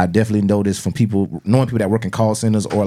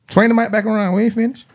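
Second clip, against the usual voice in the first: high, raised call across the room; 12 semitones higher than usual. Real, not acted. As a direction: call out to get the mic back. Calling out to pass mic.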